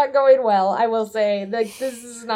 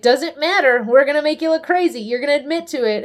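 higher-pitched, insistent mock overruling; dismissive lawyer; 5 semitones higher, 4 dB louder than usual. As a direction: brush the objection aside, pitched up. Voices attorney overriding his client.

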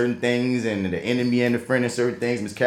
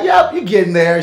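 imitating Sherry; 7 semitones higher, 7 dB louder than usual. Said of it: "Oh, I can hear her voice".

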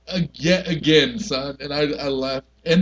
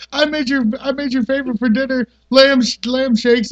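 higher, sing-song wife voice; wife quote; 7 semitones higher, 3 dB louder than usual. Retold or imitated. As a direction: pitch up as the cheery housewife. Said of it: "She's like".

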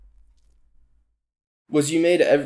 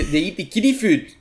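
put-on South African accent; 5 semitones higher than usual. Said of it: "That was a better one".

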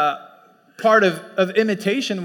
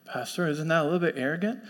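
questioning congregant; 3 semitones lower, 7 dB quieter, faster than usual. Pretend. Voices a congregant's objection.

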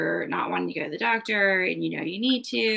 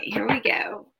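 whispering; 3 semitones higher, slower than usual. Real, not acted. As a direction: breathe it out under the breath. Starting the tarot card pull.

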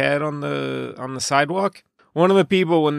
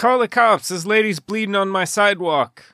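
mock urgent call; 6 semitones higher than usual. Acting out the movie guys.

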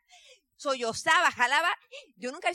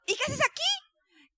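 high, slow and puzzled; surprised question; 3 dB louder, much slower than usual. Retold or imitated. Acquaintance asking the daughter why she came, slow and astonished. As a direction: drag the question out in disbelief.

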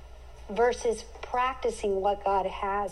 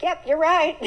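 sheepish admission; 6 semitones higher, 5 dB louder than usual. Retold or imitated. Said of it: "And I was like".

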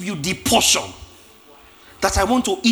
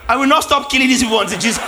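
laughing mock threat; 2 semitones higher, 4 dB louder, faster than usual. Acted Abraham, laughing, fast.

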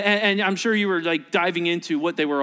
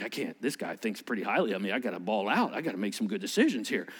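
lower, softer, quick self-talk; flattered inner voice; 8 semitones lower, 7 dB quieter, faster than usual. Retold or imitated. Flattered customer muttering to himself, low and hurried. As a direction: talk yourself into spending, hushed and fast.

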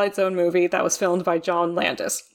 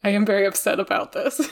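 nervous laugh. Real, not acted. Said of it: "nervous laughter".

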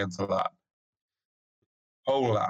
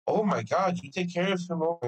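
imitating shocked lady; 5 semitones higher than usual. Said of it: "she was shocked".

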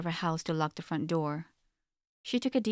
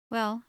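sighing; 6 semitones higher, 3 dB louder than usual. A narrator's reading. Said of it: "she sighed".

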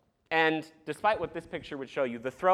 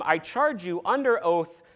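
slow, weighty, formal demand; emphatic solemn charge; 3 semitones higher, 4 dB louder than usual. Retold or imitated. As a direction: lay every ounce of authority on it. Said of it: "the most emphatic".

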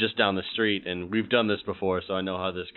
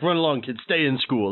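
heroic lecture; 4 semitones higher than usual. Acted. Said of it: "I'll be like".

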